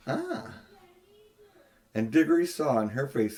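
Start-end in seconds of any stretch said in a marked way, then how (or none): 0.1-0.6 a long, soft, drawn-out high sigh; a greedy, drawn-out ah. Acted. The queen hearing of a younger world, soft drawn ah. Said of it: "The queen gave a long drawn".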